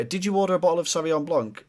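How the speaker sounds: lightly voiced hesitant question; unsure waiter. Shown as a demonstration. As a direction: ask it as if you're not sure. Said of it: "The difference between going".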